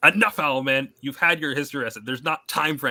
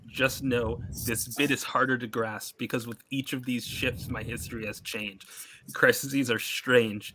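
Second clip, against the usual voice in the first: quiet, deliberate storyteller voice; grave comic narrator; 2 semitones lower, 7 dB quieter than usual. Acted. Reads a comic character's monologue.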